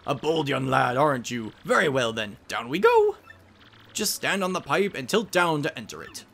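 scholarly professor giving directions; professor guide. Acted. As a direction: caution the party like a mentor.

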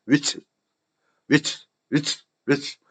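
"위치" as a short, quick burst; said quickly. Shown as a demonstration. Teacher drills which is, "위치" said quickly. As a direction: squeeze which is into a fast "위치". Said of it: "which is는 빨리".

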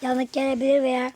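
talking while chewing gum; words round a piece of gum. Real, not acted. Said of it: "sakız çiğniyorum".

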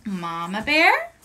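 animated read-aloud with gasps and dramatic pauses; storytelling for children. A narrator's reading. Teacher reads story to kids.

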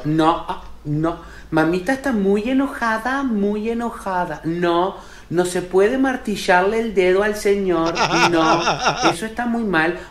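lightly voiced, drawn-out gentle scolding; permissive mother. No-limits mother to her destructive son, feeble mock scolding. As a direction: scold very mildly, stretching the words. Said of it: "Esa madre que no puede poner límite".

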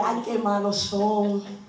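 low, slow, drawn-out complaint; hammed-up slow moaning; mock lament. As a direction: drag it out like a put-upon believer. Mimics complaint about the gossipers.

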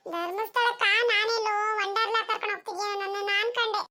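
put-on slow, high kid voice; whining child. Child who expected Wonderla complains to mother, whining child voice. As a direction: drag it out like a let-down child. Child figure protesting the destination.

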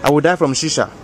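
put-on African-accented uncle voice, unhurried. Uncle bragging to the homies, African accent. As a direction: play the boastful African uncle.

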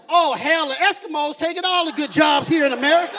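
grumbling redneck. Retold or imitated. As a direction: complain like a bigoted neighbor. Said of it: "heard anybody go".

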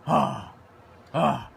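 panting after shouting; winded, catching his breath. Real, not acted. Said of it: "Daddy's out of breath".

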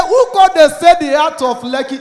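loud, high indignant yell; shouting at the agent in disbelief; outraged shout. Retold or imitated. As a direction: bellow the question in disbelief.

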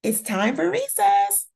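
cheerful shout across the room; teacher shouting. A narrator's reading. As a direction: call the kids out to play. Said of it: "the teacher shouts".

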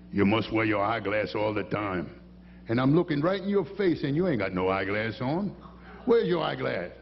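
lightly voiced Cajun deputy, gloating. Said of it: "They all talk like that".

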